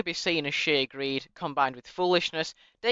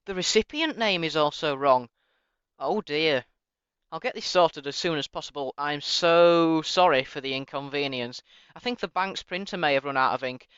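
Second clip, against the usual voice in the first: sarcastic. Acted. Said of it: "overly sarcastic reply".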